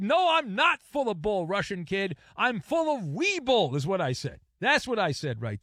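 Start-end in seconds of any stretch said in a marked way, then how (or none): 0.0-3.8 higher teasing reply. Retold or imitated.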